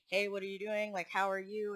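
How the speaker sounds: casual, even-pitched friendly question; calm greeting. Retold or imitated. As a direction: imitate an easygoing hello at ordinary volume. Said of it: "It wasn't calm".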